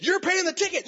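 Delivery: hammed-up judge ruling; stern judge. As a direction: lay down the verdict. Judge answers her.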